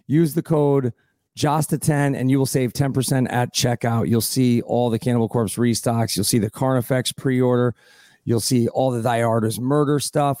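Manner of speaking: steady, polished promo read; sponsor ad read. Acted. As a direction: read the sponsor plug to listeners. Host reads a sponsor spot.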